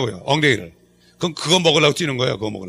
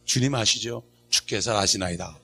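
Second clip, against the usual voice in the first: soft prayerful murmur, sinking lower; model prayer; 5 semitones lower, 7 dB quieter, slower than usual. Shown as a demonstration. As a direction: confide quietly in the Lord. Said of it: "이렇게 하면 기도가". (나직이 읊조리는 기도)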